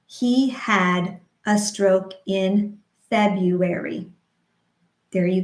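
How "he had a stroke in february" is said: slow, syllable by syllable; slow rhythmic demo. Shown as a demonstration. Speech therapist modeling a sentence slowly, rhythmic. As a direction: model it slowly for stroke survivors. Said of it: "We could say that sentence again".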